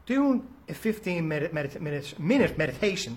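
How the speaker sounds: tripping over the phrase and restarting; stumbling over the words. Real, not acted. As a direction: fumble the words and start over mid-phrase. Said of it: "can't even get it out today".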